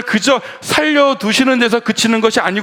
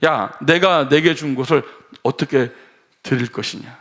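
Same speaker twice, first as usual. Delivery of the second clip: God gently asking. Retold or imitated. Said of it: "하나님은 다르게 물으세요".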